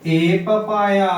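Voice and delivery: A papaya said slowly and deliberately; slow dictation. Shown as a demonstration. Teacher to students, dictating the example slowly. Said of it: "means एक पपीता".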